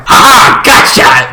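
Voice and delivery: high, loud mock laugh and cry; hammed-up villain's gotcha; gloating gotcha. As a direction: pounce on it with a triumphant cackle. Acting out a villain's surprise attack.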